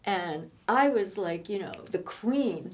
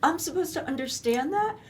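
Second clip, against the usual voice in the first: indignant; 6 semitones higher, 5 dB louder than usual. Retold or imitated.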